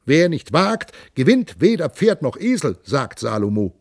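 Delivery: high, sneering mockery of a timid idea; mocking scorn. Count Raufdegen mocking old Wismund, sneering and loud. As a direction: scoff at the old knight's caution. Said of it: "höhnte Graf Raufdegen".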